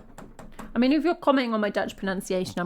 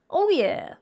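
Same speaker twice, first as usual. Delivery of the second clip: excited; 4 dB louder, much slower than usual. Real, not acted. Excited about three Bruces.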